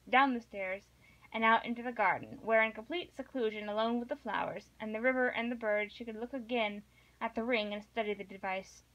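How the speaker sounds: steady read-aloud narration; measured novel reading aloud; story narration. Acted. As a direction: read the chapter to a listener. Reads novel chapter aloud.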